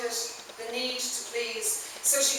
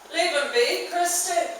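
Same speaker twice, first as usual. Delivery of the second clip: higher, louder Northern Irish voice; Northern Irish accent; 7 semitones higher, 4 dB louder than usual. A narrator's reading. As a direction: speak up with a Northern Irish lilt. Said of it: "with a Northern Irish accent".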